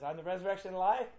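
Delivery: quick, rising, mock-grand announcement; joking claim. Preacher showing the class a laughable way Jesus could say it, joking. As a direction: toss the claim out fast, lifting at the end. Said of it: "depending on how he said it".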